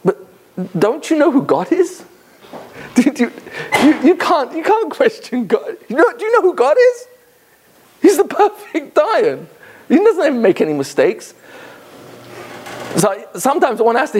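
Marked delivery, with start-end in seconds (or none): 0.0-11.3 put-on high, lightly Yiddish-accented old lady, amazed; incredulous old lady. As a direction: voice her as if the question were absurd, in a Yiddish lilt. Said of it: "she was kind of saying".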